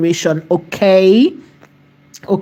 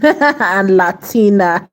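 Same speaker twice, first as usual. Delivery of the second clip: playful laugh; much slower than usual. Real, not acted. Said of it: "This is me just being, you know, playful".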